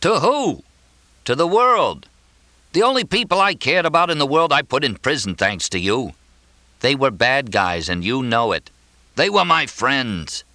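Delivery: high, indignant rant; explosive outburst. A narrator's reading. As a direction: blow up and hurl the blame back. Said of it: "Mortimer exploded".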